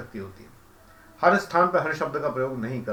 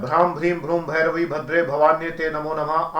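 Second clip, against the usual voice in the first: steady rhythmic chant, evenly pulsed; mantra recitation. Shown as a demonstration. Teacher showing how the hymn goes, rhythmic recitation. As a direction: recite it as a measured Sanskrit verse. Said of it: "जब इस तरह से आता है".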